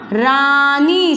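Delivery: रानी drawn out as रा...नी; syllable by syllable. Shown as a demonstration. Teacher sounding out the word just built, syllable by syllable. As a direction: hold each syllable of रानी long. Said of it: "शब्द क्या बना अपना?".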